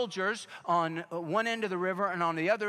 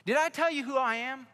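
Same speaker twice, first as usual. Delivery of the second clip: cocky agent; 6 semitones higher than usual. Retold or imitated. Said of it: "he said".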